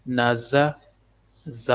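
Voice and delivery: slow, drawn-out letter-by-letter drill; measured Qaida teacher's recitation; spelling drill recitation. Shown as a demonstration. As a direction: intone each letter, then its syllable. Drills spelling out Quranic syllables.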